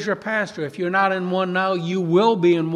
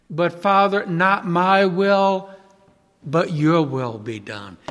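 humble surrender; 2 semitones lower, slower than usual. Retold or imitated. Voices Jesus' surrendering prayer.

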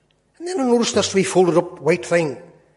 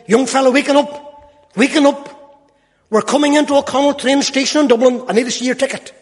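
a louder, higher call to rouse a sleeper; conductor waking him; 6 semitones higher, 4 dB louder than usual. Retold or imitated. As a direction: shake a dozing young fellow awake with your voice.

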